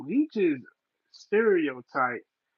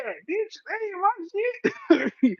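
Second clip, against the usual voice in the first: emphatic denial; 13 semitones higher, slower than usual. Retold or imitated.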